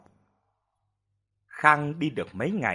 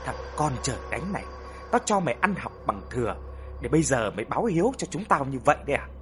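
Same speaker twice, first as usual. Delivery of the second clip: mildly angry scolding, quick-paced; scolding mother; 2 semitones higher, faster than usual. Acted. Mother berating her wayward son, quick mild scolding. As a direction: scold a grown son in rapid bursts. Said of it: "mẹ ông mới gọi ông lại mắng".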